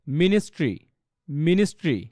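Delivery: "মিনিস্ট্রি" ending in a joined "stri", falling; model pronunciation. Shown as a demonstration. Teacher modelling ministry like history, careful pronunciation. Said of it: "এটা কী হবে".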